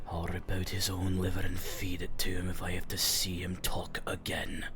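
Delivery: furious, hushed muttering under the breath. Voicing a character walking out angrily: angry muttering under breath. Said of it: "angrily, like, you can hear him say under his breath".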